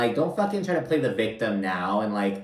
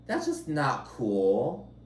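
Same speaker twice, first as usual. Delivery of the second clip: Uba; 12 semitones higher, much slower than usual. Retold or imitated. Recapping a clip of a castmate mimicking Uba, high mocking imitation. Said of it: "still mimicking Uba".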